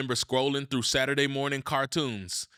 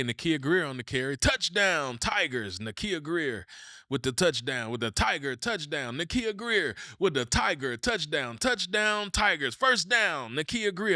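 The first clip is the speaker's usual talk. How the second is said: lightly voiced stadium announcer, rising pitch; announcer call; 3 semitones higher than usual. A kid remembering the stadium announcer, mock announcer call.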